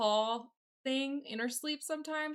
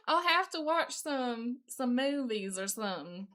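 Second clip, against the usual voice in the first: put-on terrible Southern accent. Streamer getting into character, badly faked Southern accent. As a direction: try out an amateur Southern accent. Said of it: "This is a terrible, terrible Southern accent".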